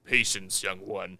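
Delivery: calm gentle wise voice. Retold or imitated. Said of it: "Darth Vader's like".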